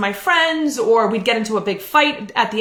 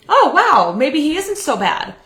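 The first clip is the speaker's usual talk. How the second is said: pitched-up, louder surprised hope; mock surprised hope; 5 semitones higher, 3 dB louder than usual. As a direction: imitate her past self's surprise at the dinner. Retelling her own hopeful thought.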